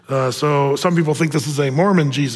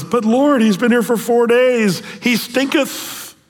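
higher, slow drawn-out stinketh; matter-of-fact Martha; 5 semitones higher, slower than usual. Acted. Martha objecting to Jesus, higher blunt protest. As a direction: protest like a practical sister. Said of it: "Miss Practical, Martha, says".

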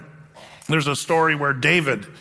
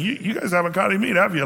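knowing tease; 3 semitones higher, faster than usual. Shown as a demonstration. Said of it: "there's an implication".

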